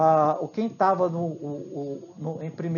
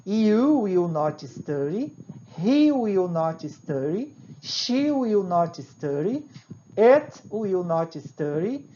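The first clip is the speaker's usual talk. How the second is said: slow drill; slower than usual. Shown as a demonstration. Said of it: "E a mesma coisa aqui no verbo to study".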